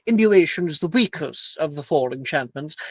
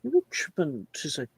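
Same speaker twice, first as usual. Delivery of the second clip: lightly voiced stern teacher; strict professor lecturing.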